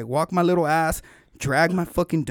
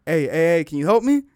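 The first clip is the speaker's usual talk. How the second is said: first call for help; 5 dB louder, faster than usual. Retold or imitated. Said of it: "I was like".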